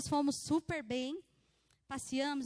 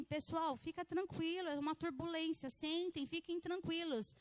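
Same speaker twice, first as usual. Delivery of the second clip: slightly higher, softened flight attendant voice; imitated calm reassurance; 3 semitones higher, 4 dB quieter than usual. Flight attendant tells passengers to stay seated, calmly reassuring. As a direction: soothe the cabin as if nothing is wrong. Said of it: "E ela super, né, tranquila".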